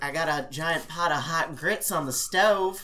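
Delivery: lightly voiced Madea. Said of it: "Medea's like".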